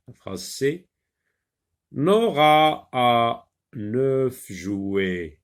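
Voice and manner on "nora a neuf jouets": Nora a neuf jouets read very slowly, Nora drawn out; slow model reading. Shown as a demonstration. Teacher models the sentence slowly to be repeated. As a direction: spell it out slowly for the child to repeat. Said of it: "Répète".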